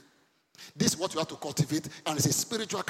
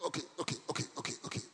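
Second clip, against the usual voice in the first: whispered; 8 dB quieter, much faster than usual. Real, not acted. Calming the laughing crowd.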